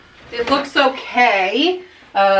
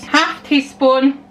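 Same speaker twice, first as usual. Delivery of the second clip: drawn-out measure in a put-on accent; slow repeat; slower than usual. Baker repeats half teaspoon while measuring, slow repeat. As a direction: stretch out both words slowly.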